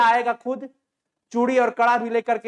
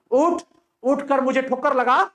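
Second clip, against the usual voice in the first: much higher, louder challenge; taunting shout; 5 semitones higher, 3 dB louder than usual. Acted. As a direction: bark the dare at him. Manak taunts the fallen soldier.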